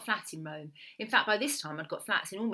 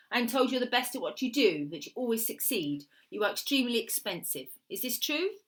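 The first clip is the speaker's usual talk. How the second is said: lightly voiced Italian woman, questioning; a hint of an Italian accent, rising to the question; Italian woman client; 5 semitones higher, 4 dB louder than usual. Woman sounding out a hired killer, lightly voiced Italian client.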